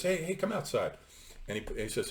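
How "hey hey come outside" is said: high, hushed-ish "hey, hey" call of a hustler; gangster's beckon. Retold or imitated. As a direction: beckon him outside like a shady gangster.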